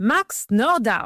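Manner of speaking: put-on mixed German and American accent. Speaker quotes a man who fled Germany to America: German-American accent. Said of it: "במבטא אמריקאי, גרמני כזה".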